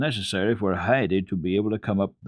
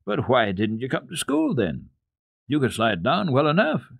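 reproachful; 5 semitones higher than usual. Acted. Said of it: "she suddenly added in reproach".

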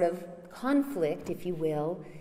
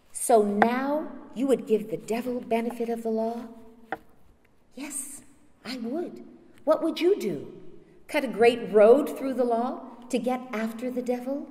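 raised, louder argumentative questioning; heated challenge; 7 semitones higher, 6 dB louder than usual. Acted. Son-in-law and More argue over the devil, heated. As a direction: throw the challenge back with rising force.

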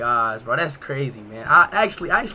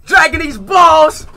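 slow, high hammed-up yell; comic bellow; mock shout; 13 semitones higher, 10 dB louder, much slower than usual. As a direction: drag the words out loud for laughs.

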